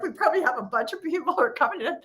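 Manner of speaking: high, fast mock complaint from new viewers; impatient viewers. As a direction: play baffled newcomers demanding coaching. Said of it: "they're like".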